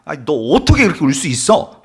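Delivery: mildly indignant mock scolding; mock anger. Imagined Jesus scolding weeping Mary, mock anger. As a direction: act out an incredulous telling-off. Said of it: "마리아에게 분노하시고 화를 내시는".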